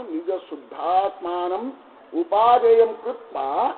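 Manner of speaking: slow, measured chanting of the Sanskrit text; scriptural recitation. Acted. Teacher reciting the commentary to listeners, slow solemn chant. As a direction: intone each phrase to the assembly, lingering.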